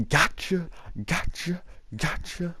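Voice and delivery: high, sing-out teacher taunt; teasing teacher. Retold or imitated. Teacher taunting students while handing back failed tests, teasing. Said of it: "as he's handing back these tests".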